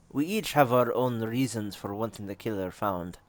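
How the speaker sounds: put-on measured, approximate Russian accent; a loosely done Russian accent. Game character explaining her stake in the murders, Russian accent. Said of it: "want to give her a Russian accent".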